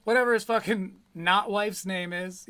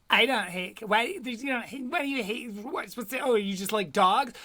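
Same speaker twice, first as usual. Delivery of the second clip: mock cat person, building from mild protest to loud indignation; cat lover getting more and more riled up, imitated; getting worked up; 2 semitones higher, 4 dB louder than usual. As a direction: start halting, then burst louder on "Oh, dogs". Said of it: "she kinda gets worked up more and more".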